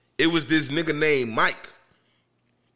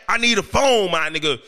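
retold demand; 4 dB louder than usual. Retold angry demand for a phone.

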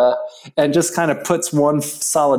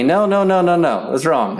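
high, loud scolding no-no-no; retold yelling; 5 semitones higher, 3 dB louder than usual. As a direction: yell it like a strict teacher correcting a student. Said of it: "she's yelling at me".

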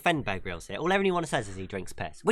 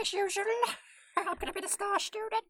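very high squeaky ferret voice; 5 dB quieter than usual. Pretend. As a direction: squeak back like a ferret student. Ferret student role play.

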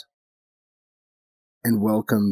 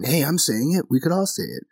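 mock-eager quote, pitched up; higher voice, imitating someone newly given permission; emboldened audience member; 5 semitones higher than usual. Audience member copying the comic, emboldened mock quote.

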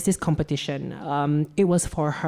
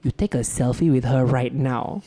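stern Asian mom. Retold or imitated. Mom ordering her son back inside, stern. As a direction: lay down the law like a scolding mother. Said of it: "being the typical Asian mom".

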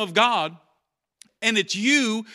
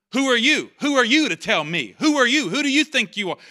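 rebellious attitude; 3 semitones higher, 3 dB louder than usual. Retold or imitated. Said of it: "that kind of stuff".

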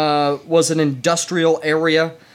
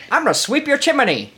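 high mock Cockney chimney sweep voice, laughing; laughing parody of a Cockney chimney sweep; Cockney transatlantic; 11 semitones higher than usual. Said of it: "cross between Cockney and transatlantic".

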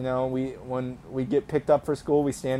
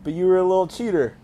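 mock accusing; 3 semitones higher, 3 dB louder than usual. Real, not acted. Calls out cheating classmate Kyle.

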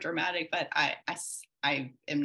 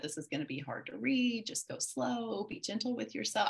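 gentle counselor; 7 semitones higher than usual. Retold or imitated. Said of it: "so kind and so gentle".

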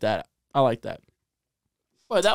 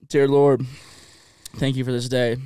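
hushed prayer; 5 semitones lower than usual. Acted. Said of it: "I wanna say a prayer too".

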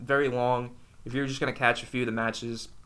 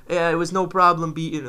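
heavy Irish brogue, loud and bright; imitating a thick Irish accent; 5 semitones higher, 8 dB louder than usual. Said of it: "in a really heavy Irish accent".

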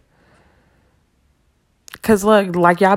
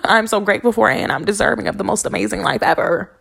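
excited affirmation; 4 semitones higher than usual. Retold or imitated.

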